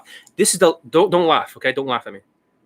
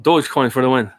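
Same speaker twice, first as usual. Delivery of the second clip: lightly imitated low, halting tech founder; Elon Musk; 4 semitones lower than usual. Playing the founder giving strategies, halting low impression. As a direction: lower your pitch and stumble through ums and restarts. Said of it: "that's how he talks".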